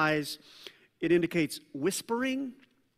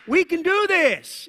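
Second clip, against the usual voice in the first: higher, louder and slower rallying cry; cheerleader pep; 10 semitones higher, 9 dB louder than usual. Retold or imitated. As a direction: pump the crowd up like a cheerleader. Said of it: "channeling his inner cheerleader".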